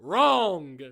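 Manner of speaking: a sharp loud "Wrong!"; gleeful shout. Acted. Warden correcting the doctor, loud gleeful shout. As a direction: cut him off with glee.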